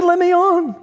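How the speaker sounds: high, loud pleading; desperate plea. Retold or imitated. Late passenger begging the agent at the door, high and loud. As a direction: cry out to be let on the plane.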